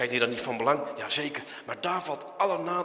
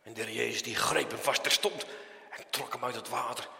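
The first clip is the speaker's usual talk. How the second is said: ordinary delivery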